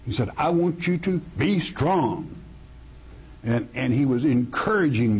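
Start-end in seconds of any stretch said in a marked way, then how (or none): 0.4-2.3 firm, raised stress on "be strong"; emphatic. Acted. Preacher voicing God encouraging Joshua, emphatic. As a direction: press "be strong" home, pitched a little higher. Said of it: "This is emphatic".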